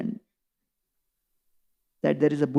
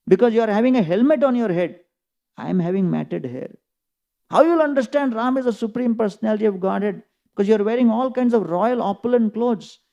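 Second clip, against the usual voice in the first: rapid, higher scolding questions; chastising; 4 semitones higher than usual. Retold or imitated. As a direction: scold the king with quick pointed questions. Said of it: "chastises him".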